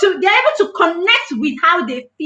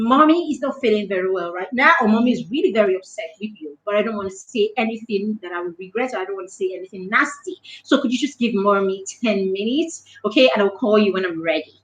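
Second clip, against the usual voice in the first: lower, softer, composed parent voice; talking nicely; 5 semitones lower, 3 dB quieter than usual. Acted. Upset mother asking her four-year-old for ten minutes, speaking nicely. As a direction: gently ask a child for space, voice held low. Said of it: "you talk to your child nicely".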